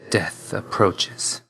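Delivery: slow, drawn-out death knell; ominous. Acted. Death's agent announces the end, slow and ominous. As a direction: pronounce doom slowly, with weight.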